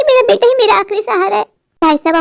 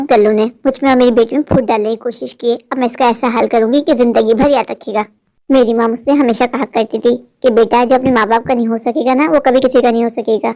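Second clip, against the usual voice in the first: low, scheming mother muttering revenge; a plotting mother, voice pitched low; 8 semitones lower than usual. Acted. Mother Kokila plots revenge.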